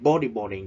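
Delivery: "bodyboarding" with BO stressed, the rest falling away; stress on first syllable. Shown as a demonstration. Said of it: "we straight at the first syllable". (nhấn âm đầu tiên của "bodyboarding")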